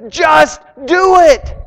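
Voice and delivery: slow, loud, high shout; shouted command. Acted. Jesus calling Peter out onto the water, shouting. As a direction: belt it out as a rallying cry.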